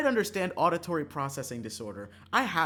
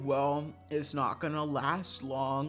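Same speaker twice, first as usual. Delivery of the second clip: gloomy pessimist; much slower than usual. Retold or imitated. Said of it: "someone is always just like".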